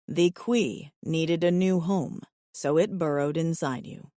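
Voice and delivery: low, even alien voice; steady, low and earnest; calm alien suitor. Acted.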